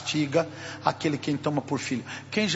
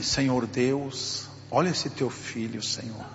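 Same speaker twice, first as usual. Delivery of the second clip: hushed prayer; 6 semitones lower, 5 dB quieter than usual. Retold or imitated. Stranger prays over injured pastor.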